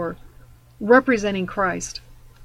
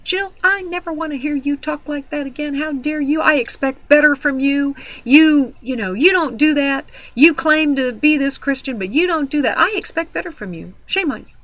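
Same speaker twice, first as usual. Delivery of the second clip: scolding friend; 5 semitones higher, 3 dB louder than usual. Retold or imitated. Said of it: "she whipped her head around and she said".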